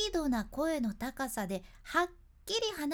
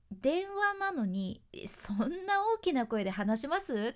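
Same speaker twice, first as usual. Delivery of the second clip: mock complaint; 3 dB louder than usual. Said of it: "って人おりませんかね".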